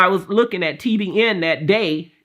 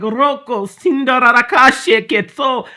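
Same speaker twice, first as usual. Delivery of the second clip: mock speaking in tongues, a bit louder; retelling the prayer language that came out; imitated tongues; 3 semitones higher, 4 dB louder than usual. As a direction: rattle off the strange syllables as heard. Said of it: "it was like".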